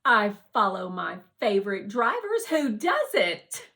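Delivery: loud, offhand shrug in the voice; casual confidence. Acted. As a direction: say it like it's obvious.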